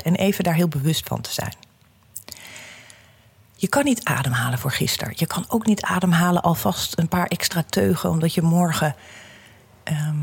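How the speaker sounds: calm guiding voice, unhurried; guided meditation. Acted. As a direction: lead them gently through breathing. Guided breathing exercise.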